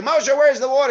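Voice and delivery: high, loud shouted demand; angry demand. Acted. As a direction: yell at Moshe for water. People yell at Moshe.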